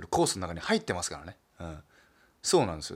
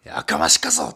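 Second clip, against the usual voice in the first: lower, louder Nagasaki-dialect growl of 「やかましかそ！」; Nagasaki dialect retort; 8 semitones lower, 8 dB louder, slower than usual. Retold or imitated. Comedian repeating his Nagasaki-dialect tsukkomi, low and loud. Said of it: "急に長崎弁使って大失敗したな".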